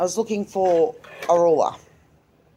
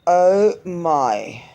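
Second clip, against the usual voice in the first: shocked gasp; 3 semitones lower, 3 dB louder than usual. Retold or imitated. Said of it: "I just went".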